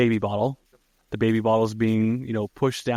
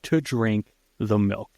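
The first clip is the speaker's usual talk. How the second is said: slow, deliberate retold order; insistent urging; slower than usual. Host voicing Tess urging A J to drink, insistent. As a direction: spell out the order word by word.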